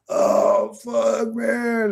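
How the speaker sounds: whispered oh, then a high squeaky fuck, man; panicked stoned friend. Retold or imitated. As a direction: imitate a friend shocked by a hallucinated bullet, voice jumping high. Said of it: "he was literally sitting there going".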